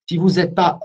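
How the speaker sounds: "vente oriented" in a heavy French accent, slowly; French-accented English. Shown as a demonstration. Trainer jokes about his own French accent in English. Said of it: "tu as vu mon, mon superbe accent".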